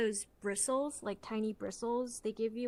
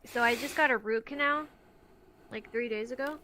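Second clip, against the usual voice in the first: talking while chewing gum; words around a wad of gum. Real, not acted. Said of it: "And I'm chewing gum right now".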